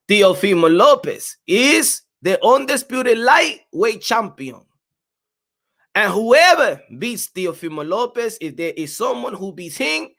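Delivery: put-on heavy Spanish accent, slow and emphatic; Mauricio Sulaiman. Host quoting the boxing body's official, mock Spanish-accented impression. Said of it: "say it the way that Mauricio Sulaiman would say it".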